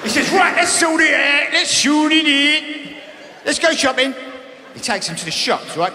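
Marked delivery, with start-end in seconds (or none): 0.3-4.1 hammed-up Greg shouting. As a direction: play Greg as a furious hyped TV host. Greg again.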